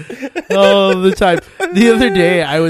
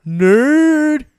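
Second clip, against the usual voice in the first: mock yell; 13 semitones higher, 9 dB louder than usual. Real, not acted. Teasing a nerdy reference.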